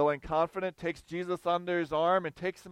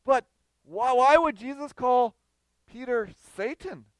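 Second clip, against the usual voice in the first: higher, louder, pressing why; emphatic question; 6 semitones higher, 6 dB louder than usual. Real, not acted. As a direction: drive the question home. Preacher's emphatic rhetorical question.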